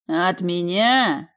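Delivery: slow, loud offended roar. Acted. The scoundrel to Alisa before hitting her, slow roar. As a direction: bellow it back at her, stung. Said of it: "взревел негодяй".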